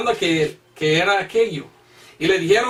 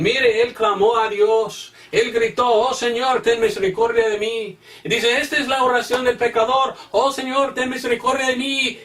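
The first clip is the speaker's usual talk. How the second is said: a touch of sarcastic preacher impression; mocking other preachers; 5 semitones higher than usual. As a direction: parody the preachers who sell this prayer. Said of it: "Y dicen".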